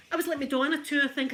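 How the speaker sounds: quick, high, laughing line; giggling at her past as a pop-star wannabe. Real, not acted. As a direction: laugh through the confession. Laughing at herself.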